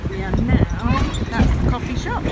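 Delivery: talking while bouncing on a rough road; on a bumpy road. Real, not acted. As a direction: voice jolted by a bumpy ride. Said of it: "Sorry, it's a bit bumpy".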